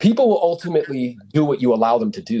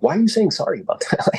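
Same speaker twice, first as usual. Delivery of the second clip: incredulous mock question; 7 semitones higher than usual.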